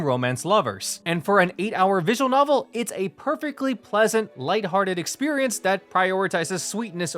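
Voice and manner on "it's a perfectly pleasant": normal talking voice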